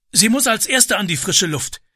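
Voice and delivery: lightly suggested breathlessness; gasping. A narrator's reading. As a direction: pant it out mid-rescue. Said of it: "keuchte der Mann".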